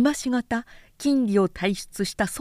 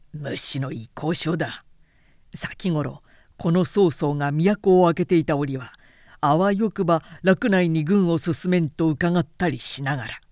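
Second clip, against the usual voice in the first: a lightly voiced lord scoffing, then rising in irritation; Cao Cao, scornful. Cao Cao scorns Yuan's letter before his aide, mildly indignant. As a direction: sneer at the letter, anger growing.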